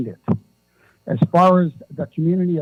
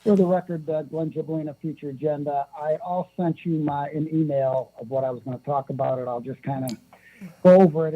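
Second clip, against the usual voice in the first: phone held away. Real, not acted. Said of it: "He doesn't speak into the phone".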